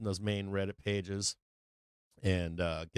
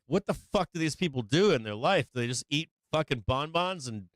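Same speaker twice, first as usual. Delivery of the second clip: higher-pitched incredulous questioning; exasperated rant; 5 semitones higher than usual. Acted. Streamer reacting to online commenters, exasperated rant. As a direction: rant in mock disbelief at these people.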